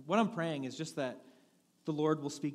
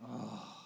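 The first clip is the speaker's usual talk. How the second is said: imitated moan; 4 semitones lower, 6 dB quieter than usual. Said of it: "I moan".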